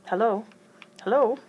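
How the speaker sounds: high, loud calling. Acted. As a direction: call out down the line. Voice calling through phone.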